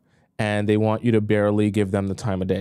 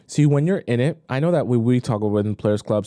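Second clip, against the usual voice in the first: ordinary delivery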